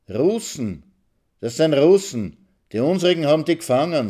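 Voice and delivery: high, loud, eager cry about prisoners; boy thrilled at the window; excited shout. Acted. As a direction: blurt it out, thrilled.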